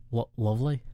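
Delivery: tentative one-word British accent; British accent, tried out hesitantly; British accent attempt. Shown as a demonstration. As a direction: have a halting go at British. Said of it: "give us your best British accent".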